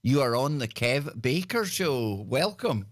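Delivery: slow, measured on-air caller introduction; radio host announcement. Real, not acted. Host brings next caller on air.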